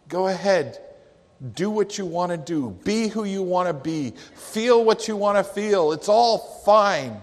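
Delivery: rising, taunting carefree voice; sing-song mockery of anything goes; mock permissive voice. Preacher mocking society's anything-goes voice, rising and taunting.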